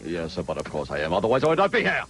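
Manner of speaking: mildly disguised stuffy voice; put-on guest voice. Mystery guest hiding his voice from the panel, lightly put on. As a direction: keep the disguise going, lightly. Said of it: "I do my Brian Brunschweiger voice".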